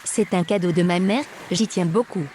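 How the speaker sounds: pleading. Acted. Captive begging the guard to keep her necklace, loud pleading. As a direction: plead for your mother's gift.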